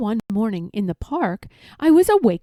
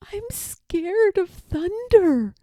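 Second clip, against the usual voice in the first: scared whisper; 8 semitones higher, slower than usual. A narrator's reading. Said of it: "she whispered".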